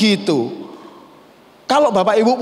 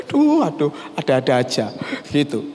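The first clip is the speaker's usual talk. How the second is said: laughing sigh; 4 semitones lower than usual. Real, not acted. Laughs at absurd story.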